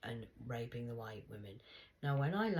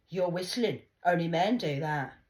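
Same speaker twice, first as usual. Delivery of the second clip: mild Rasta man; 5 semitones higher, 12 dB louder than usual. Retold or imitated. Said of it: "he went".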